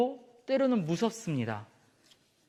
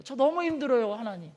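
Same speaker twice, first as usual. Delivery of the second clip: Elijah's tired plea; 5 semitones higher than usual. Acted. Elijah telling God he is exhausted, mildly tearful. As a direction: plead as if worn out.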